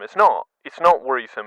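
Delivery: NOT punched, then wearisome slow and firm; stress on NOT. Shown as a demonstration. Host correcting a misreading, stressing the right word. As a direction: insist on not, land wearisome slowly. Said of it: "'cause it's not worrisome".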